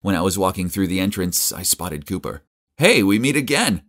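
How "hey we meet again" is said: bright raised greeting across the room; calling out. Acted. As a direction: call it out to a friend. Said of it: "I called out".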